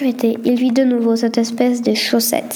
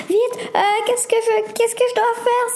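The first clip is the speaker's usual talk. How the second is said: high, stammering panic; panicked; 10 semitones higher than usual. Acted. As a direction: fumble for words in a panic. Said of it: "s'écria Théo sous le stress".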